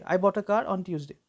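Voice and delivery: weak "a", stressed "car" and "Tuesday"; slow even rhythm, "a" tucked in lightly; unstressed article. Shown as a demonstration. Teacher saying it over for practice, unstressed "a". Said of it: "बार-बार बोल के देखोगे".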